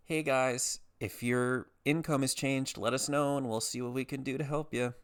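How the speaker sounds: a hint of a chirpy customer-service notice; friendly agency voice. Health insurer offering help to the jobless, lightly imitated friendly official.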